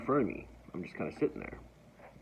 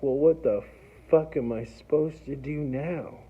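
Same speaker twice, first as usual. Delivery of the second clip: louder and higher, cursing in disbelief; a loud what-now curse; exasperated outburst; 3 semitones higher, 4 dB louder than usual. Retold or imitated. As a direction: blurt it out, stranded and baffled. Stranded outside jail, exasperated.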